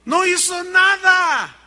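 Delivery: slow, loud, high proclaiming shout; emphatic shout. Real, not acted. Preacher to congregation, slow booming declaration. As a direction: hammer it home from the pulpit.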